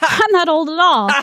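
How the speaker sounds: indignant high scoff. Acted. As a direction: scoff at the insult. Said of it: "The fir tree scoffed".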